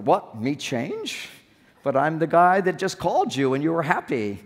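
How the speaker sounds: acted wounded disbelief, questioning rise at first; mildly defensive. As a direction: protest like a man told to change. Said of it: "we get a little defensive".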